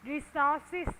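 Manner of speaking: "Resources" with the final s clearly sounded. Shown as a demonstration. Teacher drilling students on word endings, final S clearly pronounced. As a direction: end "Resources" on a distinct s. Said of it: "âm cuối S".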